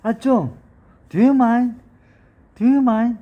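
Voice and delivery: high, loud exasperated complaint; fed up with nonsense, push back; exasperated protest. Shown as a demonstration. Teacher fending off nonsense talk, exasperated.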